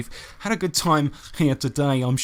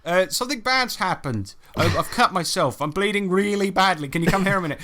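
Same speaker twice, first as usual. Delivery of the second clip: higher-pitched, urgent re-enacted plea; retold appeal for help; 5 semitones higher than usual. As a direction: plead for your wife's help, half in jest. Pleading with wife in story.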